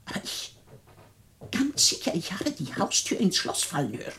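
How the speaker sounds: breathless whisper, insisting; urgent whisper. Acted. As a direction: whisper it so the intruder won't hear. Hears intruder, whispers urgently. (eindringliches Flüstern)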